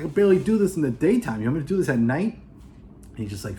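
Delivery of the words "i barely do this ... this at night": higher, louder, fast disbelieving protest; nervous newbie pushing back, fast and loud; incredulous protest. Retold or imitated. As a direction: blurt it out, can't believe what he's asked. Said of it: "And Keanu Reeves is like".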